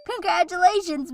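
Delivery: high, happy congratulations; delighted congratulations. Acted. Sister congratulating the new bride, delighted.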